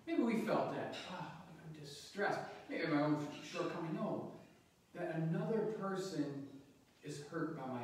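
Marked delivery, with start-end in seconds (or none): 1.1-2.4 slow, understated voicing of distress; mild acted distress. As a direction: voice a touch of dismay, drawn out. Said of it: "it says he was distressed".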